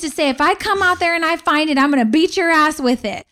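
lightly voiced stern mother; mom's saying. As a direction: playfully quote the old threat. Retelling mom's saying to kids.

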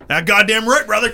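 loud, hearty bro agreement; hearty cheer. Retold or imitated. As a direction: belt it like a pumped-up steelworker. Retold steelworker cheering agreement.

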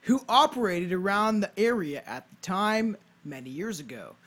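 storyteller read with punched key words; measured, emphatic read-aloud; scripted narration. Acted. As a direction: present it like a podcast history script. Reads a scripted ghost tale.

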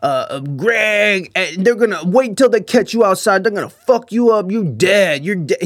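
slow, drawn-out tough-guy threats; lightly voiced blustering shit talker; lame trash talk. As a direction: imitate a drunk rambling trash talker, dragging the names. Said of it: "the way he talks shit is so, so fucking lame".

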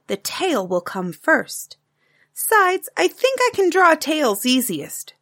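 put-on a bright child's eager question; a hint of a young girl's voice; little girl Taffy.

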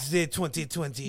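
slow fake French, on the edge of laughter; mock French accent. Naming a cheap wine to a waiter, in mock French accent. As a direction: stretch it out in a put-on French accent. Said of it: "he tried to say it in French".

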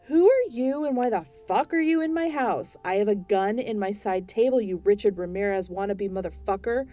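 enraged homeowner yelling at ghost; furious yelling. Acted. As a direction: scream at the intruder to get out.

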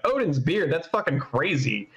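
a touch of shocked swearing; upset surprise. Retold or imitated. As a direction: imitate your own startled outburst. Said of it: "if I get really upset or surprised".

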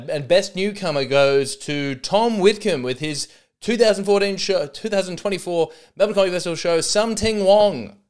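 loud, high mock awards announcer; big hammed-up ceremony announcement. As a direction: proclaim the winner, stretching the show title.

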